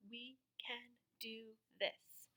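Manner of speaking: soft encouraging whisper. Acted. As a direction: whisper it reassuringly. Encouraging the class.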